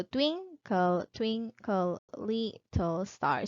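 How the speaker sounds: slow "twinkle, twinkle, little star", one syllable at a time with alternating stress; measured "TWIN-kle, TWIN-kle, LIT-tle STAR"; rhythmic syllable pattern. Shown as a demonstration. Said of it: "because of this kind of pattern".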